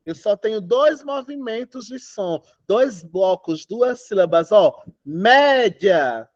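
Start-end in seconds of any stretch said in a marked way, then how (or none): 5.0-6.3 "Média" in two blocks, mé-dja; "Média" stressed on mé, dia as one sound; joined final syllable. Shown as a demonstration. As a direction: say "Média" with "dia" run together. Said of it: "O já sai junto".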